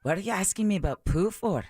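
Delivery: put-on Scottish accent. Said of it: "You're Scottish".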